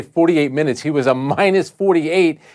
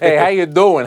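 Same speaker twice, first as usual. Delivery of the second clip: lightly hammed-up New York Italian accent; heavy New York Italian accent. Panelist teased about his accent, joking in mock New York Italian accent. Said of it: "heavy New York Italian accent".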